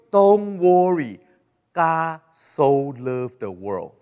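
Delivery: drawn out and slow, falsely soothing; slow mock reassurance. Preacher mocking leaders who reassure, slow and soothing. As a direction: stretch it, like a syrupy leader calming people.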